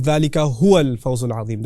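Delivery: ذَلِكَ هُوَ الْفَوْزُ الْعَظِيمُ with هُوَ given weight; recitation with huwa. Shown as a demonstration. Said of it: "He adds in huwa to this".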